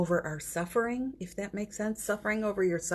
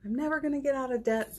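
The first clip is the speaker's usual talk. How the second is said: higher, quick hopeless worrying; mock despair, pitched up and hurried; despairing self-talk; 4 semitones higher, faster than usual. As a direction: rattle off the hopeless thoughts fast. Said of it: "If it is a lot, you know".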